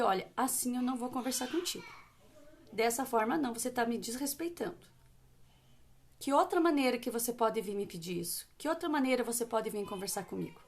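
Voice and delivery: steady and kind, never raising the voice; calm firm mother setting a limit; firm and gentle. Shown as a demonstration. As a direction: hold the line gently but firmly. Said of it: "Firme e gentil, sem gritar".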